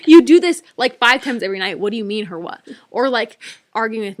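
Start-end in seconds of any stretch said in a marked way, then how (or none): 0.1-2.6 exasperated wife. Retold or imitated. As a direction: scold him through disbelief. Wife exasperated at husband, retold.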